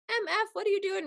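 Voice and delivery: high, yelled curse at other drivers; a mother snapping at cars that cut her off; mock road rage. Imitating mom cursing at drivers in carpool, high and angry. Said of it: "she'd be like".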